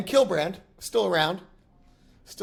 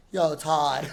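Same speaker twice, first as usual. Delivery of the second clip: put-on Delco accent. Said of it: "whatever Delco, Delco accent".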